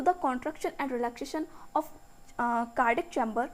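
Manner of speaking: very slow, word by word, so students can write; slow textbook dictation. Shown as a demonstration. Teacher dictating the definition to her students, slowly. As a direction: read each English word out slowly and evenly.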